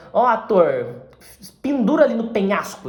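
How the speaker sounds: lightly acted director calling out to an actor; a hint of a bossy director; mock director's order. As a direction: call it out like a director giving orders, half-playfully.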